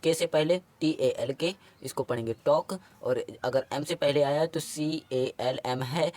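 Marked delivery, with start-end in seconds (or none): 2.5-2.7 टॉक ending on K, no L before it; silent L. Shown as a demonstration. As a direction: go from the vowel straight to K in टॉक. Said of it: "आया एल silent".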